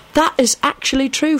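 "That is actually true" pitched high and firm; "actually true" said high with emphasis; emphatic. A narrator's reading. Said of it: "Sirius pronounced emphatically".

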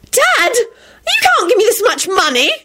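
very high, drawn-out squeal; happy squeal. A narrator's reading. Daughter handed a big sum by dad, happy squeal. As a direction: squeal with delight, stretched out. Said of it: "Rosie squealed happily".

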